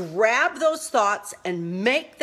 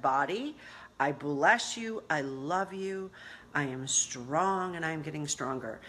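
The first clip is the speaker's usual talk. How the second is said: soft blessing; 4 semitones lower, 5 dB quieter than usual. Retold or imitated. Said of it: "I said".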